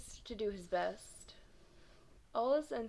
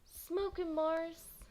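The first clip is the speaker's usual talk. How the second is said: crowd cheer; 7 semitones higher, much slower than usual. Acted. A kid in the crowd cheers Mars, shouting. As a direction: egg him on from the crowd. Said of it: "someone else called".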